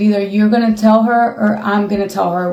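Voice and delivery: ordinary talk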